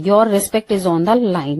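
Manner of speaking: each word slowly and clearly, stress on "respect"; slow dictation. Shown as a demonstration. Teacher dictating the English sentence slowly to students. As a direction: read it slowly, like dictation to a class. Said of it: "daily use English sentence".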